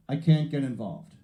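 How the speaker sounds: put-on slow New York accent; lightly put-on New York accent, drawn out. Truck driver refusing the man he hit, New York accent. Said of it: "he comes over in his New York accent".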